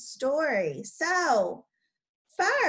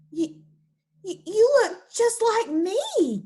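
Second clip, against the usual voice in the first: higher, slow stammering gasp; gasped surprise; 8 semitones higher, 5 dB louder than usual. Acted. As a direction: stumble over the words in amazement. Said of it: "gasped Alfred".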